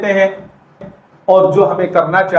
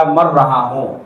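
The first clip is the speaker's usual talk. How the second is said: angry reply; 6 semitones lower, slower than usual. Acted. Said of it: "اب ان کو تو غصہ تھا".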